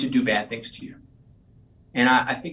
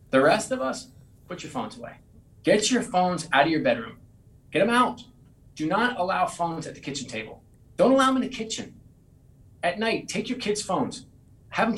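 emphatic urging; 5 semitones higher than usual. Real, not acted. Urging listeners to ditch phones.

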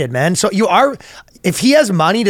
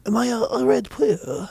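attempted Singaporean accent; 6 semitones higher, 7 dB quieter than usual. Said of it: "should I do that accent instead".

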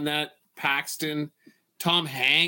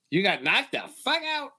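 quoting Chris Tucker; 6 semitones higher than usual. Retold or imitated. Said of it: "one of the lines I still use".

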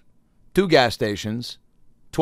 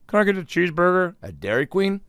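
high, goofy put-on customer voice; mock naive customer; 8 semitones higher than usual. Imagined customer ordering a burger at Dairy Queen, high and goofy. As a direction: play a clueless customer ordering. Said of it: "Who's ever said".

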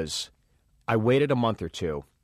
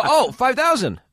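high, louder laughing disbelief; surprised laugh; 13 semitones higher, 6 dB louder than usual. Retold or imitated. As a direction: laugh it out in shock at the money. Stunned by the big fee.

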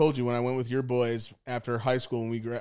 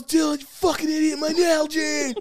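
high-pitched outraged wail; mock anguished scream; 12 semitones higher than usual. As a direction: imitate a friend wailing over a lost bottle. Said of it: "He was, like, screaming for it".

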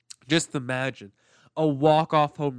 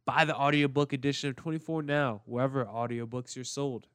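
upbeat sponsor read voice. Acted. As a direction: sell it like a podcast ad.

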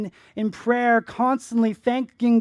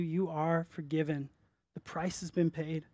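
tender reassurance; 7 dB quieter than usual. Acted. Savior's words of forgiveness.

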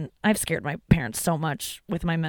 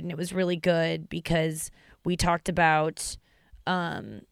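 flat robot voice, fading softer; 4 dB quieter than usual. Real, not acted. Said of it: "I'm getting, like, robot voice".

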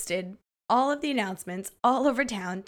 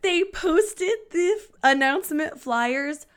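fighting laughter; 2 semitones higher than usual. Real, not acted. Cracks up while telling story.

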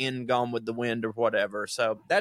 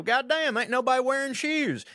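much higher hammed-up hillbilly exclamation; mock hick exclaiming; 11 semitones higher than usual. Imagining the salesman's first look at Mississippi, high mock hick. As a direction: play a yokel amazed at bare feet. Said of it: "you go".

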